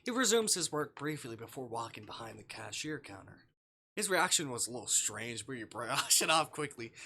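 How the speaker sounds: calm storybook read of the game text; game narration. Acted. Streamer reading visual novel text to chat, calm narration. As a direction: narrate the scene evenly to the viewers.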